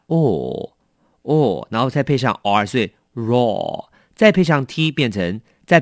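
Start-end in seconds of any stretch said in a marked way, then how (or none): 0.1-1.7 slow rounded o, o, like the aw in straw; vowel drill. Shown as a demonstration. Teacher drilling the o sound of straw. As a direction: round the lips and hold o. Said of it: "来，我们试一下o，o".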